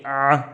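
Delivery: tighten the throat on "ah"; Arabic ayn, a retch-like "ah"; vomiting sound. Shown as a demonstration. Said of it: "the vomiting one".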